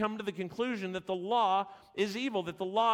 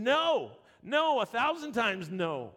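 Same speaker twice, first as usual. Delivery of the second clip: emphatic no; 4 semitones higher, slower than usual. Retold or imitated. Preacher voices Paul's emphatic refusal.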